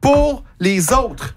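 high, very slow mock plea; imitating Linda. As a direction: stretch each word out like a lecture to the crowd. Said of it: "je vous imite dans un événement".

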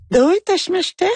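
imitating a very high-pitched Japanese woman's voice; voix aiguë de Japonaise. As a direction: pitch it an octave up, mimicking feminine Japanese politeness. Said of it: "avoir une voix aiguë". (imitation d'une voix féminine très aiguë)

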